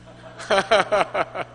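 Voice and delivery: bursting into a real laugh; chuckling heartily mid-joke. Real, not acted. Laughing at his own joke. (자기 농담에 크게 웃음)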